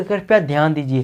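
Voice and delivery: polite formal call; respectful announcement. Shown as a demonstration. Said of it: "respect से बोलती है ना वो". (सम्मान से अनाउंसमेंट)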